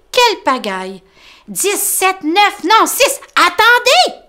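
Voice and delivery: high, loud flustered counting; Tom getting annoyed. Acted. Tom counting wriggling rabbits, high flustered voice. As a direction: lose count and get cross. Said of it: "s'énerve Tom".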